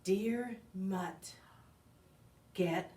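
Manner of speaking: gruff dismissive. Acted. Harsh junkyard guy reply.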